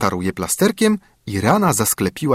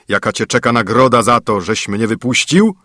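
usual speaking voice

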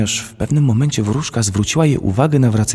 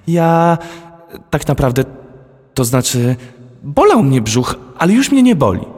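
put-on very high and louder, stammering child; flustered little girl; 7 semitones higher, 4 dB louder than usual. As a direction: get caught out and fumble for words. Girl caught lying, flustered. (przyłapana dziewczynka plącze się, wysoko i głośno)

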